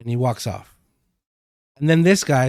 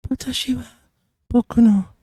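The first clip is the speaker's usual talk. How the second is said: breathy, high-pitched villain; 10 semitones higher than usual. Shown as a demonstration. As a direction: put on a high, breathy, nervous creep. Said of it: "It sounds really breathy and really high-pitched".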